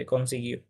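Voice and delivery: কনসিগিও said "kon-see-GHEE-oh", no u sound; কনসিগিও, hard g and the u left silent; correct pronunciation. Shown as a demonstration. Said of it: "এটার উচ্চারণ হয় এভাবে".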